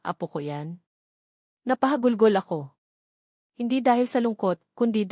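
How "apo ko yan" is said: a hushed, wondering little question; soft whisper. Acted. Mother touching her son's belly, hushed wondering whisper. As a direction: breathe it softly, as if not to break the moment. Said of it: "bumulong siya".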